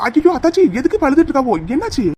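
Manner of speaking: high, alarmed "aiyo"; alarmed concern. Acted. Woman finding her sister-in-law crying, alarmed and high-pitched. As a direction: rush to her, startled and worried.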